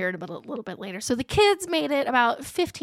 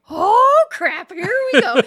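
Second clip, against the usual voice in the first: mock-panicked outburst, starting high and loud; retold scream; 6 semitones higher, 5 dB louder, slower than usual. Rider as he guns it more, mock panicked yell. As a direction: yelp it, then let a laugh in. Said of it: "I'm screaming".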